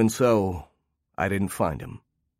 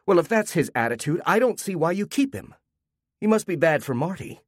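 higher-pitched, pointed complaint; loud indignant remark; 8 semitones higher than usual. A narrator's reading. A party guest objecting to the owners about the dog, loudly. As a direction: say it high so the guests hear. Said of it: "said loudly".

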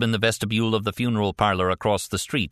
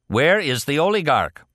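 raised-voice interrogation; pressing demand; 7 semitones higher, 4 dB louder than usual. A narrator's reading. Man interrogating his wounded captive, demanding. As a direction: demand it, pitched up.

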